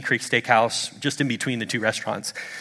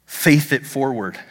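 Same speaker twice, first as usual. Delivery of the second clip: measured slogan; slower than usual. Real, not acted. Repeated slogan, middle take.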